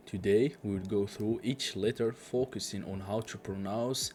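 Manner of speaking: slow, careful presenter read; measured teacher voice; slow English intro. Acted. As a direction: welcome learners slowly and clearly.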